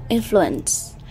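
"Influence" as a stress example, IN-flu-ence; first-syllable stress. Shown as a demonstration. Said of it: "cũng là âm thứ nhất".

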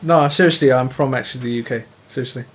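low, lightly put-on British accent; fake British accent. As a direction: insist you're British, low. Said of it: "you just made an English accent".

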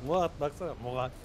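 Murat said with the r dropped, like muat; can't say r. Retold or imitated. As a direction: mimic a missing r in Murat. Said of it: "R'leri söyleyemiyor ya".

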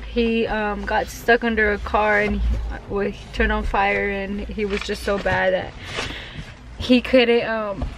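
talking through real tears, voice a bit strained; tearful. Real, not acted. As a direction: speak while holding back crying over a lost friend. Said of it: "I gotta stop crying".

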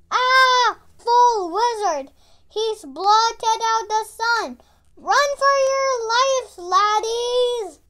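loud, high frantic cries; panicking Scottish-ish creatures. Acted. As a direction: flee in hammed-up panic. Trail mix creatures panic.

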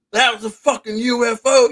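high, loud retold outburst; excited exclamation. Everyone reacting to the vanished light, amazed shout.

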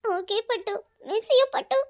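small voice rising into crying; teary, plaintive longing; tearful. Acted. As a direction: say goodbye on the edge of tears. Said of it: "அழாத முதல்ல".

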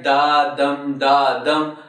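"da, dum, da, dum" with each "dum" stressed; "da, dum, da, dum" as a steady unstressed-stressed metre; iambic beat. Shown as a demonstration. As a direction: sound out "da, dum, da, dum", weak then strong. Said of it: "if we read it like".

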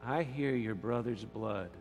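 slow, low, hushed voice; God hushing. Acted. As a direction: hush them to listen, then speak slowly and softly. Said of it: "And God said".

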